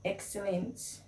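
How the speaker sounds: Excellent with H sound at the start; town pronunciation. Shown as a demonstration. Town people saying Excellent with an H sound. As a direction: say Excellent as Hexcellent. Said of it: "pronounce their E as H".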